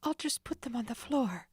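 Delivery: decide it fast; quick decision. Acted. Nancy hastily dropping the keys, quick. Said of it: "she decided quickly".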